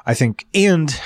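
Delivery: breathless, gasping between words; talking while short of air; out of breath. Real, not acted. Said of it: "sorry, I'm out of breath".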